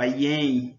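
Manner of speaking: "ien" as a single syllable; "ien" with no break between the vowels; joined as one word. Shown as a demonstration. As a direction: glide "e em" together into "ien". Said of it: "uma palavra só".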